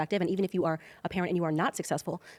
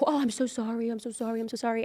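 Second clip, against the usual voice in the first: mock sympathy; 4 semitones higher than usual. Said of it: "and then they're".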